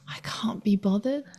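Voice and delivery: breathless whisper; unvoiced listless line; whispered apathy. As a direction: mutter it without voice. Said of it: "I just am like".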